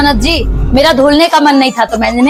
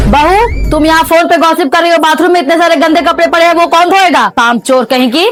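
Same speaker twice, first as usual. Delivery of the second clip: a higher-pitched, nagging mother-in-law calling out to her bahu; scolding mother-in-law; 4 semitones higher than usual. Acted. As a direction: bark out the chores like a bossy saas. (बहू को डाँटती सास, ऊँची आवाज़ में)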